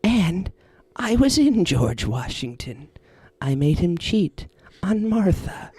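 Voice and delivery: slow, eerie spirit voice, lightly put on; a creepy spirit bragging, barely acted; possessing spirit impression. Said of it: "the Kalo impression".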